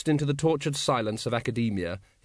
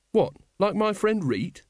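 horrified; 9 semitones higher than usual. A narrator's reading. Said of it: "said Carrot, horrified".

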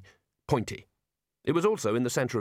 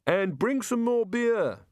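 calling after; 10 semitones higher, slower than usual. A narrator's reading. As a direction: call out to departing friends. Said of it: "Rincewind called after them".

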